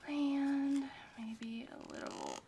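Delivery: whispering. Real, not acted. Placing glue carefully.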